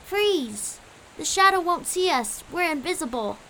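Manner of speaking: high, chirpy bird voice; high-pitched little character voice; chirped. A narrator's reading. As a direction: chirp a quick warning. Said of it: "Quincy chirped".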